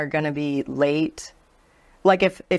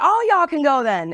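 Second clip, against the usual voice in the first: higher, loud send-off; mock dismissive coworker; 8 semitones higher, 3 dB louder than usual. Coworker kicking the whole group out, high dismissive send-off. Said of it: "She was like".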